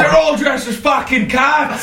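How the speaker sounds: high, drawn-out comic outburst; exclaiming. Pretend. Joining in the rant about town hall, high comic exclamation. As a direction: blurt it out high and incredulous.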